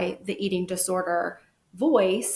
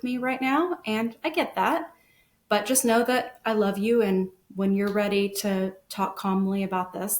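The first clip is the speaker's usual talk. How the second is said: calm unbothered. Shown as a demonstration. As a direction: stay steady and reassuring, don't take the bait. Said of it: "our job was to just be almost unbothered".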